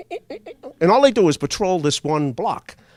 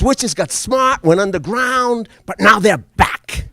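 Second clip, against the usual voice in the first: ominous warning; 5 semitones higher, 4 dB louder, slower than usual. Retold or imitated. Spooky witch warning to kid.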